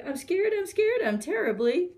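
hammed-up fright, high then dropping; terribly scared. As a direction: squeal it like a trembling cook. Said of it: "the cook declared".

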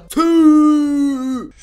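loud, high mock "tüh" of disappointment; mock dismay. Gamer fakes dismay to viewers, loud and high. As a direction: ham up the groan of defeat. Answer is Cristiano Ronaldo.

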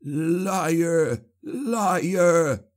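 high, desperate screams; shrieking in despair. A narrator's reading. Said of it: "Clabe cried".

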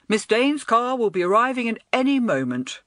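a lightly voiced commissionaire moving people along; mild official announcing; doorman directing crowd. A narrator's reading.

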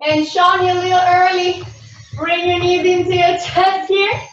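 lilting, rhythmic counting-in voice for a dance class; sing-song class cueing. Acted. Instructor cueing students through a tango warm-up in a lilting voice. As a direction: coax the class through each stretch in time with the music.

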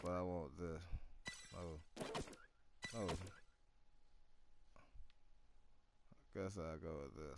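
breathy, right up on the mic; breathing in the mic. Real, not acted. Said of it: "Stop breathing in the mic".

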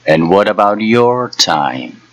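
lightly voiced old hag; a hint of a teasing old crone. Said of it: "the old hag asked, chuckling again".

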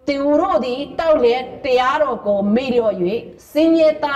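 measured, solemn Bible reading; scripture reading. Acted. Reads Proverbs 31 aloud.

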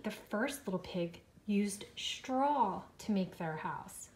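whisper. Real, not acted. Answering children softly.

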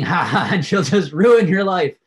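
gloating laugh. Retold or imitated. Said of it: "he's thinking".

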